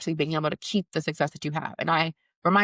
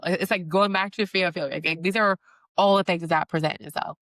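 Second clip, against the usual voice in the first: ordinary talk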